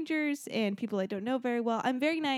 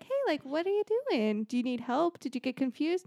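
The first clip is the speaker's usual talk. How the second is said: nice coworker voice; 5 semitones higher than usual. Retold or imitated. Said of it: "Instead of being, like, a nice person".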